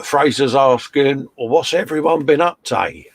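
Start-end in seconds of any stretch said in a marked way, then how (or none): 1.4-3.0 put-on light Scottish accent, a little higher. Host reading a viewer's chat message in Scottish accent. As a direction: read the viewer's question in a mock Scottish accent. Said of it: "that was the host's Scottish accent".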